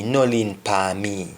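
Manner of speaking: "No lean depan me" in a Jamaican Patois lilt; a mild Patois request. Shown as a demonstration. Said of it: "an example would say".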